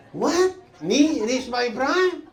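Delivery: high, slow laughing disbelief; laughing outrage. Retold or imitated. Told he has reached his prime, laughing disbelief. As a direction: scoff at the idea, laughing. Indignant at wife's remark.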